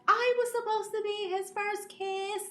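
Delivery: hammed-up high fangirl whine; mock jealous fangirl. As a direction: squeak it out like a heartbroken fangirl. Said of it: "The girls are pissed off because they're like".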